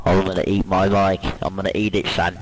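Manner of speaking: loud, level-pitched outburst; loud frustrated venting. Real, not acted. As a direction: bellow it into the mic. Venting after being scored on.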